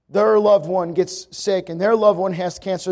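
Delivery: ordinary talk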